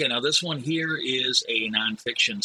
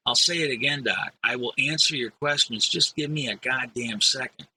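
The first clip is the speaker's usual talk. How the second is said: mildly irritated patient. Acted. Dave snaps at the doctor.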